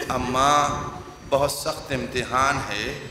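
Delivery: low, soft grieving plea; hushed, sorrowful entreaty; soft pleading. Acted. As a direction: plead quietly with a dead mother. Husain pleading softly to mother.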